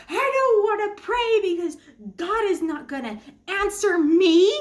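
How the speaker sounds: high, loud, tearful protest; upset refusal. Retold or imitated. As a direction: push back hard, near tears. Retold refusal to husband.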